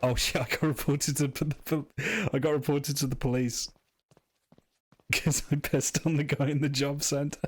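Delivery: lightly voiced cheeky townie, half laughing; a hint of a cheeky local bragging; game character voice. Reading a game character's line, lightly voiced.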